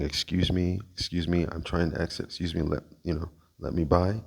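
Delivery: soft, polite excuse me; polite quiet request. Retold or imitated. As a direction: ask quietly and politely to pass. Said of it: "I can be heard on video approaching him, saying".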